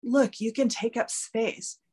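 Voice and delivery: soothing self-talk. Shown as a demonstration. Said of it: "if you can say to yourself".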